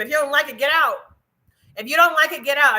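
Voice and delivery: defiant near-shout telling critics to leave; loud, defiant. Real, not acted. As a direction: push it out loud, take it or leave it. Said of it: "I can scream if I wanna scream".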